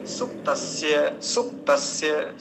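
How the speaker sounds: सुप्तस्य slowly as "sup-tas-ya"; separated consonants. Shown as a demonstration. Teacher explaining an odd cluster, careful सुप्तस्य. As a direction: close the प before the त in सुप्तस्य. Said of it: "प है और त है".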